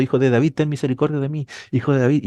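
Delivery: a blind man calling after Jesus, only hinted; retold crying out. Preacher retelling the blind beggar's cry, lightly voiced. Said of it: "estaba detrás de Jesús gritando".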